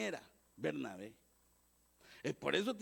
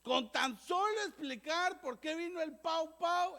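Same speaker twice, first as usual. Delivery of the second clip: preaching emphasis; 8 semitones higher, 4 dB louder, slower than usual. Real, not acted. Preaching at full force.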